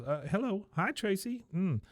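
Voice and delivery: put-on high-pitched girlish phone voice; Luann. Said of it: "Luann comes over and".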